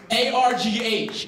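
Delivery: A R G H, each letter slow and spaced; spelled out slowly. Shown as a demonstration. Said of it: "it should be a Scrabble word".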